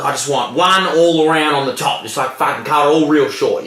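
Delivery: lightly voiced broad Aussie bloke; casual imitation of an old Aussie customer. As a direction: put on a mild Aussie old-timer.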